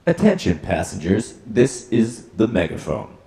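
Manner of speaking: tinny megaphone announcement. Shown as a demonstration. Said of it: "go over to megaphone".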